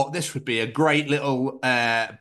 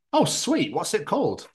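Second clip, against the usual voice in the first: chirpy texter; 5 semitones higher than usual. Retold or imitated. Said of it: "Text message conversation".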